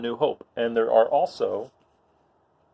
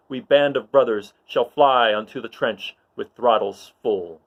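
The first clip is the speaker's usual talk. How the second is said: louder, rousing call to arms; rallying battle speech; 3 dB louder than usual. Acted. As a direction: stir the troops before the charge. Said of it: "And Luke says".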